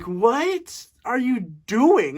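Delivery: stretched-out, incredulous question; exasperated disbelief. Retold or imitated. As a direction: draw each word out slowly, baffled. Acting out own baffled reaction.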